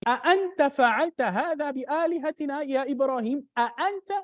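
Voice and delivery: mock demand to Ibrahim, leaning on أأنت; accusing question. People questioning Ibrahim about their idols, a light accusing tone. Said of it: "like when they ask Ibrahim".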